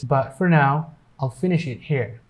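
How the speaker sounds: "But for" as one word with the T of "But" dropped; silent T. Shown as a demonstration. Teacher demonstrating "But for" as one word, silent T. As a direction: link "But" into "for", no T release. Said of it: "T will be totally silent".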